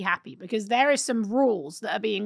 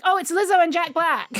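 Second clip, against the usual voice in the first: higher-pitched retold delight at spotting celebrities; surprised recognition; 5 semitones higher than usual. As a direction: replay the moment you recognised the stars. Reenacts surprise at celebrity cameo.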